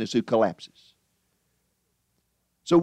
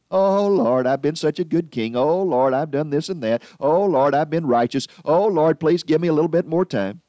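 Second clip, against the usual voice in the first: hammed-up whining prayer, a little louder; mock sobbing plea to God, louder on each "Oh, Lord"; mock crying plea; 2 semitones higher, 3 dB louder than usual. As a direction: whine to the Lord like a crybaby begging. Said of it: "he cried and he whined".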